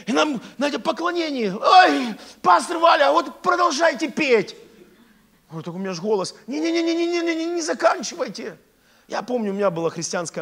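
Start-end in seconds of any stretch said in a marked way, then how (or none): 1.6-4.6 high, loud, gushing cry; hammed-up enthusiastic begging; eager worshippers' plea. Acts eager worshippers calling out. 6.5-8.6 high, rapid-fire stammered protest; acted eager worshipper's plea; pleading not to stop. Acts worshipper begging not to stop.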